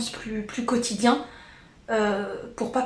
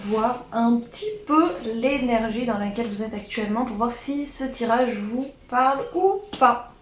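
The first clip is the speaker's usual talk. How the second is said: odd voice. Real, not acted. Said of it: "je sais pas pourquoi je parle comme ça".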